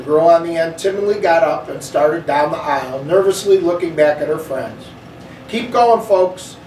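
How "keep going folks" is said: put-on sharp, impatient snap at the kids, pitched higher; a cross driver snapping at the children; snapped. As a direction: bark it out like a fed-up bus driver. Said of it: "Miss Victoria snapped".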